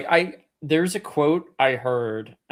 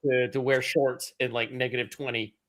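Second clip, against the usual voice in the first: sarcastic. Retold or imitated. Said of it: "and you're like".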